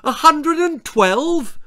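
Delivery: high, loud, slow shriek; mother shrieks reading the thermometer; mother's shriek. A narrator's reading. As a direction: shriek it in utter panic. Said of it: "her mother would shriek".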